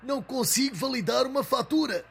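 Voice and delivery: exasperated repeat. Acted. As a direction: spell it out through clenched patience.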